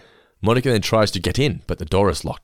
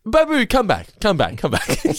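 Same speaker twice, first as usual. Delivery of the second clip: high desperate pleading cry; begging the waiter to come back; Babu pleading; 12 semitones higher than usual. Retold or imitated. Jerry's waiter begging Elaine, high and pleading. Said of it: "And Joe's like".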